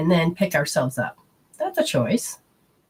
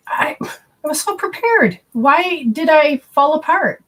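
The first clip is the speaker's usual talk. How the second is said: retold panic; 9 semitones higher, 4 dB louder than usual. Falling apart when landlord died.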